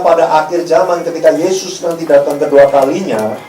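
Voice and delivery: ordinary delivery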